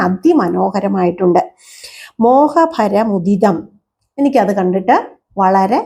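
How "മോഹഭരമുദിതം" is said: very slow chanted phrase; slow verse recitation. Shown as a demonstration. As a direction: stretch the verse out.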